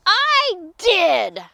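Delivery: loud, punched confession; booming villain's announcement; barked. A narrator's reading. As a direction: bark it out boldly. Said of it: "barked a voice from above".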